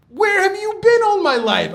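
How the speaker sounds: very high, loud, hammed-up elation; overjoyed outburst. Student discovering the secrets of Torah, hammed-up elated cry. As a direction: belt it out high like a thrilled discovery.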